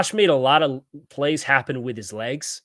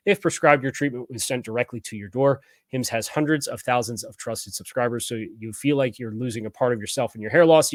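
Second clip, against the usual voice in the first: ad read. Acted. Sponsor ad read.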